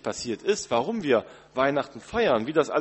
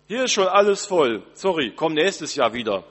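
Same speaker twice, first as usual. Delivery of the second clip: voice behind the door; 3 semitones higher, 6 dB louder than usual. Pretend. Voice inside turns the guest away, offhand and louder. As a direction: brush them off from behind the door. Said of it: "hörst du eine Stimme".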